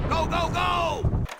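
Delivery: high, drawn-out shout to move out; distant rallying cry; urgent battle call. Acted. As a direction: hurry the squad forward from a distance. Urging troops forward.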